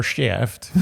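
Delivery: mock Jewish-accented shaft. Shown as a demonstration. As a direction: say shaft as "shtyeft", Jewish style. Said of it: "That's not the Jewish version of shaft".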